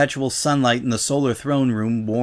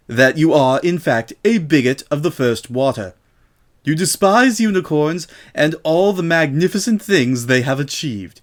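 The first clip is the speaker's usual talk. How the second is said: high, loud, sneering mare voice; a smug prosecutor pressing a confession; haughty accuser; 4 semitones higher, 4 dB louder than usual. Acted. Miss Vinton demanding Rainbow confess to bigotry, high and sneering.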